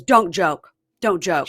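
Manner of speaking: imitated angry mom, loud and cutting him off; furious mom. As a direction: shut the joke down as a cross mom. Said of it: "She's furious".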